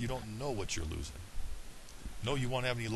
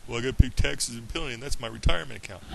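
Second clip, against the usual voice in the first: mock excuse; 7 dB louder than usual. Mocks people's excuse.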